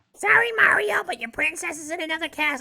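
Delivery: bad cartoon voice, pushed way up very high. Saying the line to Mario while playing as Toad: bad Toad impression. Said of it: "I don't have a good Toad".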